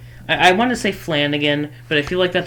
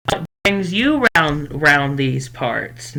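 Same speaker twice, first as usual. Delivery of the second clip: slow, drawn-out shopkeeper greeting; trying hard at a folksy welcome; effortful character voice; slower than usual. Acted. Shopkeeper asking a newcomer, slow and laboured. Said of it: "you're trying so hard".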